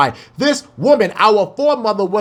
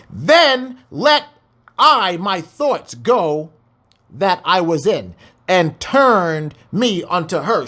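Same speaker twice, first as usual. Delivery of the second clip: scripture reading; slower than usual. Acted. Reads scripture aloud.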